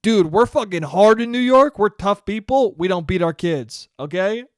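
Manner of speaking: loud tough-guy crowd; New York crowd denying they beat kids, loud; New Yorkers protesting. Retold or imitated. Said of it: "All of New York's like".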